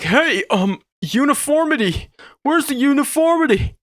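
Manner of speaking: high mock shout of a fussy critic; mock picky viewer. To the viewers, a fussy critic's mock shout. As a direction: ham up an outraged nitpicker. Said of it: "you might see this side and be like".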